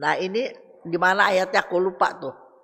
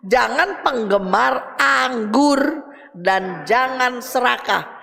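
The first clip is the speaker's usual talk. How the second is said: higher, deliberate verse reading; scripture reading; 4 semitones higher, slower than usual. Acted. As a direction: read it out slowly, phrase by phrase. Reads a Bible verse aloud.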